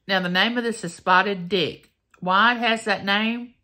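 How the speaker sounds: talking through a mouthful of cake; chewing while she speaks; mouth full. Real, not acted. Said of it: "And I'm talking with my mouth full".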